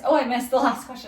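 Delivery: laughing through the words. Real, not acted. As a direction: giggle as you speak. Misses question, laughs.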